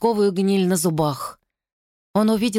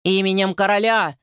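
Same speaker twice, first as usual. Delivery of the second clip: guard barking at the madwoman; barked command. Acted. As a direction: bark it in the king's name. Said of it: "гаркнул Карлстен".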